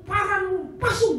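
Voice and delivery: retold blunt verdict. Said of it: "saya bilang".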